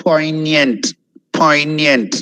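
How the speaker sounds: Poignant drawn out as "POYN-yent"; careful pronunciation. Shown as a demonstration. Teacher repeating Poignant for learners, careful pronunciation. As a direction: say Poignant with no hard G. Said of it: "I'm not emphasizing on G at all".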